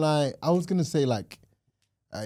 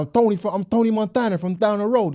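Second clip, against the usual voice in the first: lightly put-on character voice, pitched higher; Tony Montana; 5 semitones higher than usual. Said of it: "Is that how they sound?".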